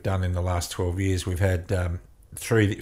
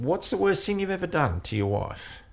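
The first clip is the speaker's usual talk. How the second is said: retold frustrated question; 10 semitones higher, 3 dB quieter than usual. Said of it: "in frustration".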